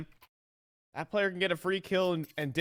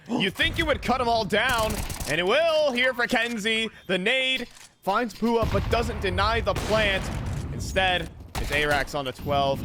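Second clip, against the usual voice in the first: raised, animated live commentary; excited play-by-play; 2 semitones higher than usual. Real, not acted. Caster calling Kenzie's kills, excited play-by-play. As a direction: call the firefight as it unfolds.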